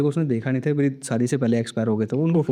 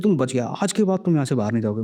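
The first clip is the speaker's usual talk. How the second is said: ordinary talk, nothing marked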